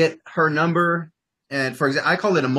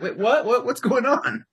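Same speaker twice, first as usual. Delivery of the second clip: higher, slower, a lightly played baffled girl; confused girl; 10 semitones higher, slower than usual. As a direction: mimic a girl caught off guard, drawn out. Girl thrown off by the opener.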